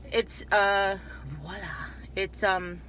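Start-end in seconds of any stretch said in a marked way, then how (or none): 1.4-1.9 fake French accent. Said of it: "distracted by my fake French accent".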